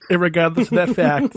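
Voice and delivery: hammed-up Boston accent. Answering a haggling buyer, mock Boston accent. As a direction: play a Boston local pressing a point. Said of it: "so good in a Boston accent".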